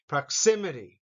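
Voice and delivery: Proximity said with the stress on xi; teacher's model, xi stressed; stress on second syllable. Shown as a demonstration. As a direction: land on xi in Proximity. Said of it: "Xi, the second syllable, has the accent".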